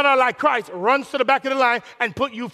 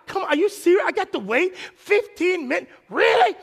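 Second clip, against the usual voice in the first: mock demanding; 8 semitones higher than usual. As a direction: whine like an entitled diner. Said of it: "listen to how demanding".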